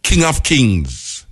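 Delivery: King of Kings said very slowly; slow solemn title. Shown as a demonstration. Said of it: "not no ganja smoking people make it up".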